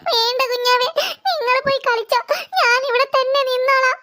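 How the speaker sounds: tearful refusal with hitching breaths; acted, sniffly self-pity; crying. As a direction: sob lightly while turning them away. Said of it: "നീ കരയാതെ എഴുന്നേൽക്ക്".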